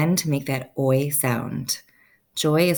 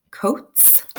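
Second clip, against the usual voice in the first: whisper; 7 semitones higher than usual. Acted. Odd word out in a row.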